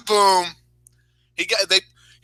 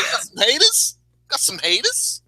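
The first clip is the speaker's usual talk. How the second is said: imitating wrestler taunt; 7 semitones higher than usual. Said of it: "He said".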